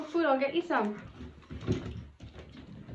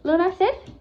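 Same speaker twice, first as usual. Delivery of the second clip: firm command; 6 semitones higher, 9 dB louder than usual. Real, not acted. Commanding the dog.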